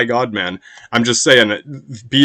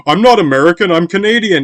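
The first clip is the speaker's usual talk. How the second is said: high, loud indignant protest; mock Canadian protest; 5 semitones higher, 4 dB louder than usual.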